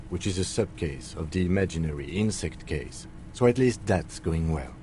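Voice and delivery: deadpan sarcasm under polite praise; very sarcastic. Acted. Partner mock-congratulates the detective on the locust case, sarcastically. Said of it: "they're being very sarcastic".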